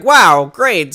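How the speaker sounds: flat sarcastic praise; fake-impressed and sarcastic; sarcastic wow. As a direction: say it with dead sarcasm. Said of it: "And it was like".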